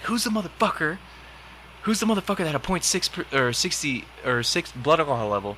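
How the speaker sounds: high mock commander yell; company commander grilling the formation, hammed-up; angry commander. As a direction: call out the culprit like a drill officer.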